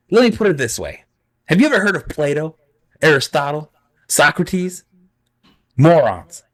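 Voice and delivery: high, smug villain; Vizzini voice. Acted. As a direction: puff yourself up, sneer at the end.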